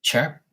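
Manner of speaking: heron chirp. Retold or imitated. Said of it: "screeching, like, chirp".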